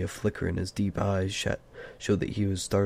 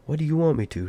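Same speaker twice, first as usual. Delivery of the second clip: high, louder, annoyed challenge; sharp suspicion; 8 semitones higher, 5 dB louder, faster than usual. A narrator's reading. Bilbo challenging Gandalf's wish, suspicious and annoyed. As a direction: demand it suspiciously, pitched well up. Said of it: "sharp with suspicion and annoyance".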